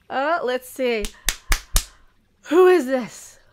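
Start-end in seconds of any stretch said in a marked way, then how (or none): 2.5-3.4 mock posh pray tell. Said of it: "Why am I doing the pray tells?".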